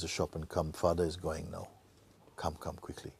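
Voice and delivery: hushed and pressing; urgent whisper. Retold or imitated. Doctor telling the sons to hurry, whispering.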